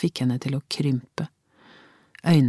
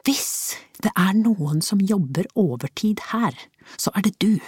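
whispered, quivering retort; wife cutting him off in a whisper; low trembling voice; 6 semitones higher than usual. A narrator's reading. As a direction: hiss it low, shaking with anger. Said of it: "med lav, dirrende stemme".

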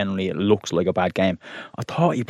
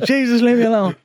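exasperated plea; 13 semitones higher, 3 dB louder than usual. Retold or imitated. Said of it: "I'm like".

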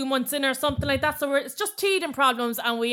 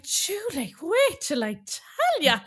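imitating mom; 3 semitones higher, much slower than usual. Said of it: "she's like".

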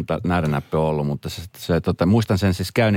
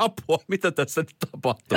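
retold fright; 9 semitones higher than usual. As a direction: replay a patient's alarm in a high voice. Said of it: "mua pelotti niinku tosi paljon". (korkea, säikähtänyt imitointi)

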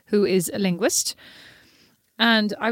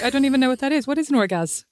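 mock clueless voice; 4 semitones higher, faster than usual. Teasing sister voiced mockingly.

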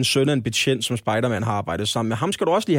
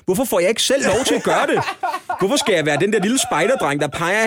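high, loud indignant rant through laughter; mock-furious gamer rant; laughing outrage; 8 semitones higher, 4 dB louder than usual. Real, not acted. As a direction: complain with amused exasperation. Ranting about the game.

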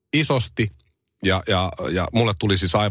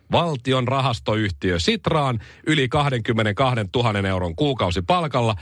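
higher-pitched, crafted newsreader delivery; satirical news read; 4 semitones higher than usual. Acted. Host reading satirical news to listeners, news read. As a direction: read it as a mock news bulletin.

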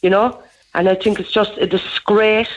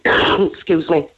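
coughing, then clearing the throat; choking; 3 semitones lower, much slower than usual. Real, not acted. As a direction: choke and cough mid-sentence. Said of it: "Choking this morning".

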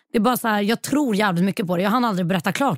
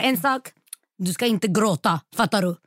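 strict Arab mother; slower than usual. Retold or imitated. Fortune teller forbidding her client to cry, strict mother. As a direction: lay down the rule like a mother. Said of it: "Hon var så här riktigt arab, mamma".

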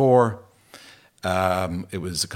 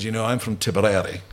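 put-on overdone Tipperary accent. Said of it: "I'm kinda overdoing the accent now".

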